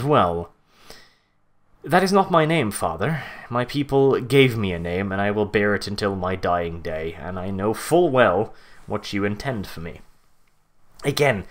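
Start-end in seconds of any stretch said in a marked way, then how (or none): 1.8-10.0 cold, lightly voiced defiant son; low and grim, a hint of menace; ominous reply. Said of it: "Conrad's ominous reply".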